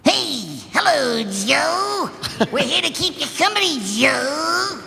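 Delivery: high, squeaky little roach voice; chipmunk voice. Acted. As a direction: squeak it like a tiny cartoon roach. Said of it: "That's a sped up voice".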